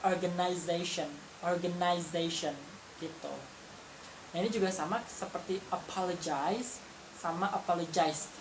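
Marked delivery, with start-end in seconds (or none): 0.1-2.5 organization said the British way, slower on the repeat; British pronunciation. Shown as a demonstration. Teacher contrasts organization with the British version. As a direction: say organization like a Brit. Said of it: "kalau yang British".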